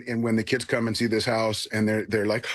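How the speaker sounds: usual speaking voice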